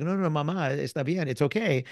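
high, reassuring no no mamá; calm the mother down kindly; gently correcting. Retold or imitated. Daughter reassuring her mother about his Spanish, high gentle. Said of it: "the daughter's like".

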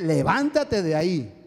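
slow, drawn-out imitated order; solemn command. Sister relaying God's word to her brother, solemn command. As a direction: weigh each word as a firm command.

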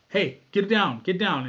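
loud repeated warning; urgent yelled order; urgent shout. Retold or imitated. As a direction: bark it so everyone ducks.

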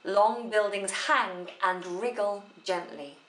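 "Long buildings hang and wriggle gently" slow and self-contained; single sense group. Shown as a demonstration. Teacher isolating a phrase for students, single sense group. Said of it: "That makes sense on its own".

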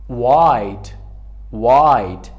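white said as wite, no h sound; slow, clear white with the h left silent. Shown as a demonstration. Teacher models the word for class, silent h in white. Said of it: "اینجا H silent است".

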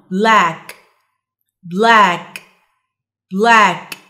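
"Black" loud, with crisply released final k; dictation word. Shown as a demonstration. Teacher dictating for listen and complete, emphatic careful word. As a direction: sound out "Black" so the ending is heard. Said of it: "هنسمع ونكمل".

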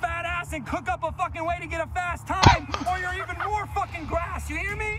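lightly voiced stern drill instructor; a hint of a barking boot camp sergeant. Drill sergeant berating recruit.

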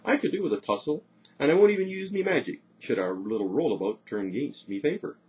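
high, loud gloating; uncharitable amusement. A narrator's reading. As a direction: relish the coming tussle. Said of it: "with an uncharitable chuckle".

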